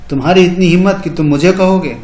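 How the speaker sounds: mock indignation. Shown as a demonstration. Acted indignant challenge.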